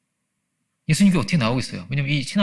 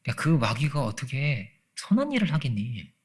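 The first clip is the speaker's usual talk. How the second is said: gentle rebuke; slower than usual. Retold or imitated. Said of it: "주님 뭐라고 말씀하시냐면".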